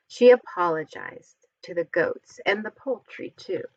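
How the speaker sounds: lively picture-book storytelling voice; reading to children. A narrator's reading. Reading a Halloween picture book aloud to children, animated storytelling. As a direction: read it like a bedtime story for little ones.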